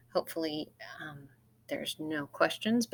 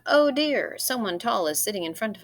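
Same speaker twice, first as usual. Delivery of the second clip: "Oh dear" lancé bien plus haut et fort; exclamation, higher; 5 semitones higher, 4 dB louder than usual. Shown as a demonstration. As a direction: read the example with real exclamation, higher pitch. Reads first example sentence.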